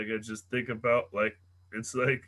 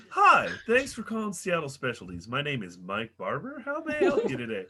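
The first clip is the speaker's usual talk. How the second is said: sing-song phone operator script; customer service voice. Retold or imitated. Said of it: "Oh, I had the".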